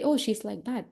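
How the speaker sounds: offhand verdict on someone, lightly acted; judgmental dismissal. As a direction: label her and leave it there. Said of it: "don't say".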